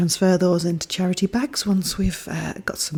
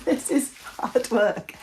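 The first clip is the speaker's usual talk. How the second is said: laughing; 5 semitones higher, slower than usual. Real, not acted. Laughing at her own effort.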